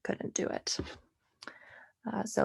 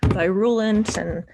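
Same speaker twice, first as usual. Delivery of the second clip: sarcastic. Real, not acted. Tutor joking about mass extinction in a pandemic, sarcastic. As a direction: feign delight at a grim topic. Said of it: "sorry, sarcasm".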